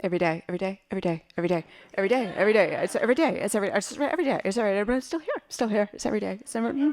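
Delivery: quick, tumbling loop of words; rattled-off repetition. Acted. Daughter answering whether she'll ever leave LA, rattled-off repetition. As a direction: keep repeating it, pitch hopping about. Rapid muttered repeats answering mother.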